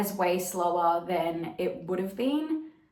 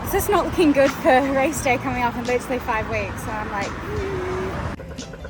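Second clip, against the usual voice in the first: breathless runner, higher and louder; while running; 4 semitones higher, 6 dB louder than usual. Real, not acted. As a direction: talk between strides, catching breath. I'm taking a little break.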